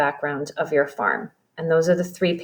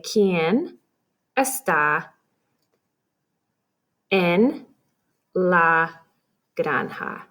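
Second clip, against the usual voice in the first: slow word by word; much slower than usual. Shown as a demonstration. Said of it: "And the words in this say".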